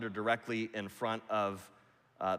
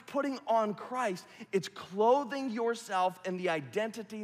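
high, loud, ringing preacher's cry; full-force preaching; 11 semitones higher, 6 dB louder than usual. Acted. Pastor thundering at the church, full-force preaching. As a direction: preach it hard over the crowd. Preaching climax on God's declaration.

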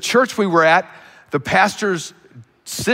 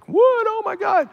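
high startled gasp of disbelief; high, stunned what, oh my God; shocked outcry. Retold or imitated. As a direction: cry out in shock as the news lands. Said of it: "blood-curdling scream".

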